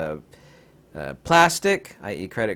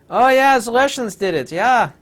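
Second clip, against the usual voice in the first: sarcastic mock agreement; 8 semitones higher, 5 dB louder than usual. Mocking official Russia-blame story.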